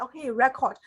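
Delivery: RECORD opening with "re" as in "red"; imitated learner reading. Teacher imitating what students think on seeing R E, noun-style "record". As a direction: say "record" like the noun, REC-ord. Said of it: "they usually think like".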